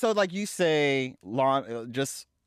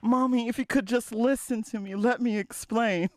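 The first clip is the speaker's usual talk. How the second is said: higher, pleading daughter; Rita pleading; 6 semitones higher than usual. Acted. Daughter asking her mother to listen, higher and pleading. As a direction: beg for a chance to explain. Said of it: "I'm Rita".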